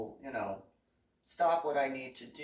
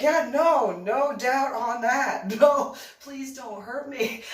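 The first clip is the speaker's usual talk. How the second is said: mock frightened pleading; 10 semitones higher, 8 dB louder, slower than usual. Partner mock-cowering, teasing.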